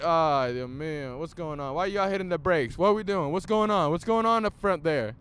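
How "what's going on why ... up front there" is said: ordinary talk, nothing marked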